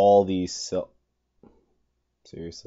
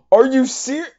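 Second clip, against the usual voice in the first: indignant squeak; 8 dB louder than usual. Real, not acted. Outrage at being eaten.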